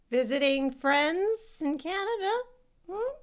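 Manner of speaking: suspicious nurse. Retold or imitated. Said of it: "for the nurse to be like".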